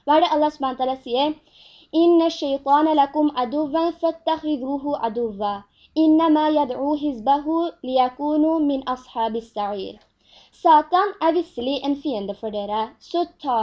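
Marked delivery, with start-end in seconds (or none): 2.0-10.0 Arabic scripture recited aloud; Quran recitation. Acted. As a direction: recite the verse in a sustained, formal chant.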